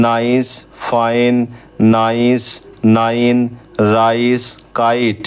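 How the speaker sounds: নাইস and ফাইন said slowly with a long আই; slow vowel demo. Shown as a demonstration. Teacher showing the আই sound, slow clear demo. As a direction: draw out the আই in নাইস, ফাইন, কাইট. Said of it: "আই sound পাবো".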